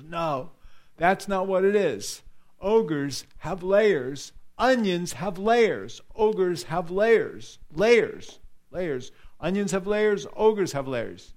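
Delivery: a lightly voiced Shrek, hammering each layers; Shrek quote. Preacher retelling Shrek lecturing the donkey, slow and insistent. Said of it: "He goes".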